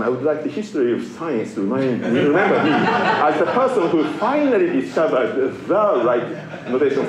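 laughing. Real, not acted. Jokes about being remembered by history.

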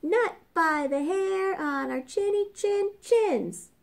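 high squeaky little pig voice; squealing pig. A narrator's reading. Little pig refuses the wolf in a high squeal. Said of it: "said the two little pigs".

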